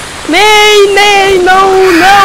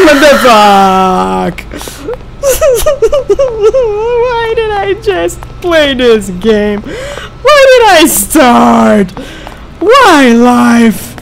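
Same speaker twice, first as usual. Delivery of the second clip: slow despairing whine; much slower than usual. Real, not acted. Despairing while scared.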